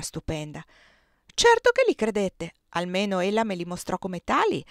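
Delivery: put-on proud old cook bragging about her cakes, lightly done; lightly voiced Aunt Clo. Zia Clo lectures young Giorgio. (la zia Clo, voce di cuoca orgogliosa appena accennata)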